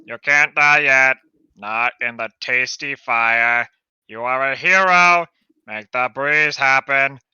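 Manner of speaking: urgent loud. Acted. Urging hero.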